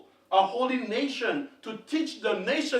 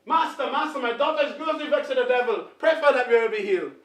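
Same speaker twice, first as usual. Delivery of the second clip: urgent pleading; 4 dB louder, faster than usual. Acted. Woman pleading loudly, acted twice.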